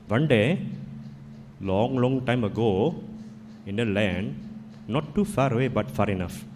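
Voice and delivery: put-on a light Indian accent telling a fable; lightly voiced Indian storyteller accent; gentle Indian accent, once upon a time. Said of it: "I can tell in an Indian accent".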